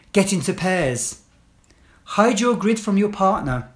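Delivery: firm, clear classroom instructions; teacher giving commands. Shown as a demonstration. Teacher to pupils entering class, firm clear commands.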